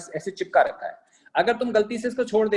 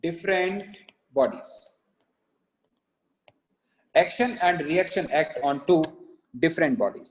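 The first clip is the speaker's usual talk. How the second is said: slow dictation with pauses; much slower than usual. Real, not acted. Teacher dictating notes to class, slow dictation. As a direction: spell out the note phrase by phrase.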